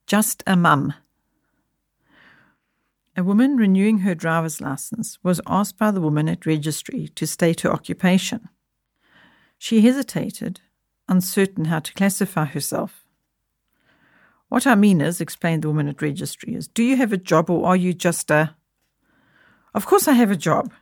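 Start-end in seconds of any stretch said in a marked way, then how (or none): 3.2-18.6 measured storytelling read; story narration. A narrator's reading. Podcast host reading a story to listeners, in measured narration. 19.7-20.7 1 snapped retort. Acted. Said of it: "snapped the woman".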